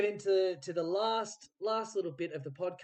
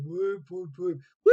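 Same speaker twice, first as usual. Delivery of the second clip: whoop; 10 dB louder than usual. Shown as a demonstration. Host demonstrating proper party whoops for the actors. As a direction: demo whoops, a touch louder. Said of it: "give me some proper acting".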